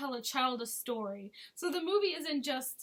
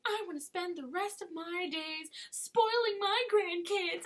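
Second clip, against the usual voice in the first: imitated doting mother; 5 semitones higher than usual. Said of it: "how she's like".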